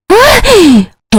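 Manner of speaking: high, short yelp of pain; startled high-pitched "ow"; pained cry. Acted. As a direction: cry out as if just slapped. Daughter slapped by her mother.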